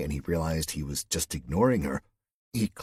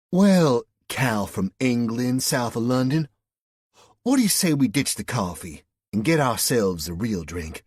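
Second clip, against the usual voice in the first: put-on high, loud Southern accent with stretched words; 6 semitones higher, 7 dB louder than usual. A narrator's reading. West Virginian woman invites Cal for a drink in a loud Southern accent. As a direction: draw out his name in a Southern accent.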